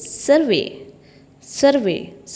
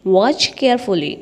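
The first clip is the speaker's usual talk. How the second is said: slow teaching repeat; much slower than usual. Shown as a demonstration. Teacher drilling a phrase for students, slow and deliberate. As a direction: draw the phrase out for learners. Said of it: "teacher repeats phrase slowly".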